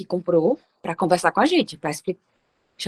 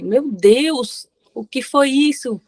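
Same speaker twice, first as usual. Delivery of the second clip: shocked exclamation; 7 semitones higher, much slower than usual. Retold or imitated. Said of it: "Eu fiquei".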